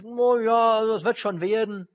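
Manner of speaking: high, loud breezy mock cheer; hammed-up high carefree exclamation; careless mock optimism. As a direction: parody a naive, carefree shrug. Mocking a careless believer's thought.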